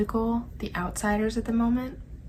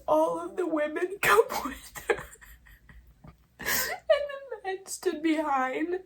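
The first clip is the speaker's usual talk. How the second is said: teary; 4 semitones higher than usual. Real, not acted. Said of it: "That got me".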